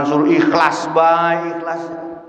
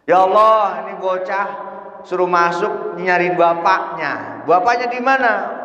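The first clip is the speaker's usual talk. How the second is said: high, raised appeal; angel's complaint to God; 5 semitones higher than usual. Acted. Angels asking God about the child, puzzled appeal. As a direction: appeal upward, pitch climbing on the question.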